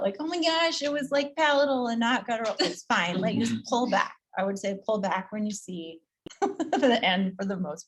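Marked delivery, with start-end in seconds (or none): 0.2-2.6 mock panic. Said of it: "don't panic about".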